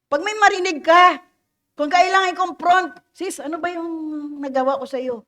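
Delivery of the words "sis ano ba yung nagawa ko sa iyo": soft, gentle question to a sister in faith; nice way. Shown as a demonstration. Preacher showing how to confront a sister gently, softly. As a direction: ask it kindly, the voice dropping softer. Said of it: "in a nice way".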